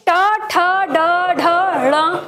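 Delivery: ट ठ ड ढ ण said one by one, tongue curled back, with a pause between; retroflex consonant demo. Shown as a demonstration. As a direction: sound out ट ठ ड ढ ण clearly and separately. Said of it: "मूर्धा आपको पता ही है". (मूर्धा से ट ठ ड ढ ण अलग-अलग बोलकर दिखाना)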